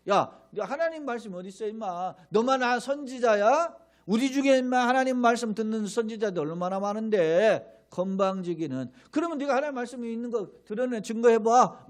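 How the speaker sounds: 비꼬며 들이대는 조롱조로; mocking taunt. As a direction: sneer at the prophet, daring him. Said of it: "막 조롱하는 거죠". (대적자가 예레미야를 조롱하며, 비아냥거리는 말투)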